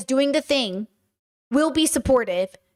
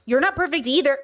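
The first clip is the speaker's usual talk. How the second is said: defensive retort. Shown as a demonstration. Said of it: "listen to that tonality".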